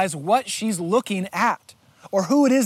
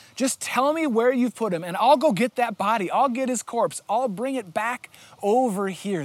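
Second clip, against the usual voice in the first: ordinary delivery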